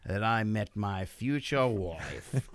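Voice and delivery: put-on accent slipping into Irish. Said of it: "You just, you crossed over into Irish".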